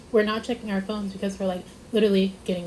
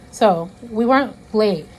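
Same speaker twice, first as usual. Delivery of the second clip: slow and loud, leaning on "late"; stress on LATE; 6 dB louder, slower than usual. Real, not acted. Friend defending herself in a storytime, stressing "weren't late". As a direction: stretch out "weren't late" with firm volume. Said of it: "I wanna stress that".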